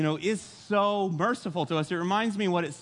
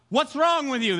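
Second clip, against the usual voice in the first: accusing sailors; 6 semitones higher, 5 dB louder than usual. Retold or imitated. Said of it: "They start barraging him".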